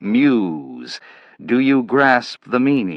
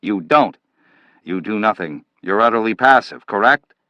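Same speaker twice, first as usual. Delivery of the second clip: louder, higher contemptuous lecture; scornful scolding; 4 semitones higher, 3 dB louder than usual. Acted. Manville berating Slade for being passive, loud and scornful. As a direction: jab each question at him.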